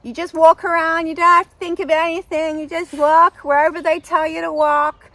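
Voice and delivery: high, loud, insistent mock American; bad American accent. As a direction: rattle off perks in hammed-up American. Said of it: "A very bad American accent".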